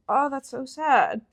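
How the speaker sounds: soft, slightly drawn-out pity; lightly acted commiseration, stretched out; a slow, softened "oh" of sympathy; mock sympathy. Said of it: "And I said it like that".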